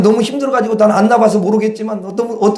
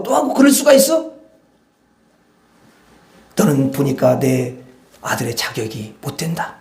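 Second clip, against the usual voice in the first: stern rebuke. Retold or imitated. God voiced as disappointed angry father.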